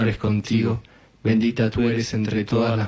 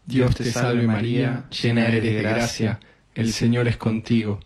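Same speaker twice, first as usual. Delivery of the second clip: even, repetitive Hail Mary cadence; rosary prayer. Real, not acted. Leading a decade of the rosary, recited prayer. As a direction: recite it steadily on a nearly level tone.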